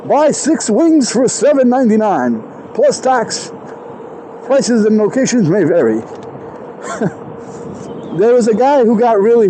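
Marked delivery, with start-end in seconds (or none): 0.1-6.0 commercial voiceover. Pretend. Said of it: "like we're doing a voiceover commercial".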